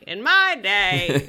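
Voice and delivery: put-on loud, slow old-granny voice with accent; hammed-up grandma accent. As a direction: play a cranky old grandma, drawn out. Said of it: "that grandma who's".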